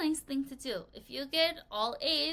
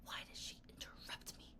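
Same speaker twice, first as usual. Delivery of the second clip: muttered annoyance; 16 dB quieter than usual. Retold or imitated. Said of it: "So it's like".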